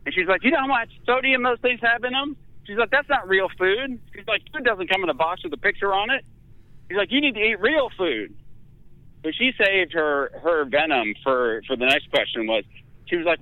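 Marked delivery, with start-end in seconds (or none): 0.4-8.4 high lightly voiced scolding nurse; a hint of a stern nurse lecturing.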